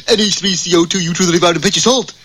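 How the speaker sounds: blurting between hiccups; hiccuping. Acted. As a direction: hiccup through the formula. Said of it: "I got the hiccups".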